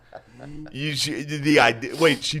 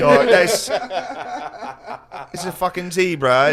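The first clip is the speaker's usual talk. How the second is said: laughing while talking; 8 semitones higher, 5 dB louder than usual. Real, not acted. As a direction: blurt it out through laughter. Laughing at zebra in photo.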